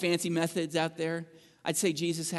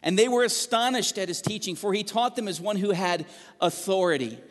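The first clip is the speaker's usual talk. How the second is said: raised, measured reading of scripture. Acted. Pastor reading Mark to the church, raised and measured. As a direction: read the passage out to the congregation.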